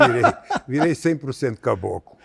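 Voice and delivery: laughing through a proud confirmation. Real, not acted. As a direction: say it while chuckling. Convidado ri ao confirmar. (rindo enquanto confirma)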